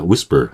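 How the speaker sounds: "whisper" as WIS-pr, weak schwa second syllable; schwa ending. Shown as a demonstration. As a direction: stretch "whisper" slowly, front strong, end reduced. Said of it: "슈아 현상이 좀 벌어지는 거예요".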